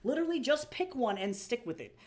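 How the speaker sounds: fed-up mock scolding; exasperated. Streamer tells off the game's voice actor, exasperated.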